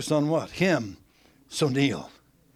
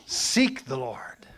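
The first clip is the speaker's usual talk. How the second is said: slow breathy whisper of "seek the Lord"; 5 semitones lower, much slower than usual. Shown as a demonstration. Preacher to congregation, whispered slow "seek the Lord". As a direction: hush it, almost a secret. Sermon, showing shifted emphasis.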